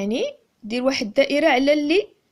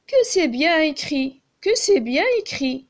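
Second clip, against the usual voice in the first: exclamatory reading; 3 semitones higher, 4 dB louder than usual. Shown as a demonstration. Teacher showing pupils an exclamation, admiring and raised. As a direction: sound delighted by "bien écrit". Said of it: "يعني هذا تعجب".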